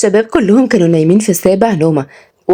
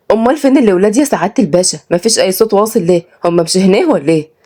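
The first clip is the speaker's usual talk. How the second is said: lightly voiced Sa'idi woman, curious; puzzled village woman. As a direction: ask around with a hint of wonder. (صعيدية مستغربة شوية)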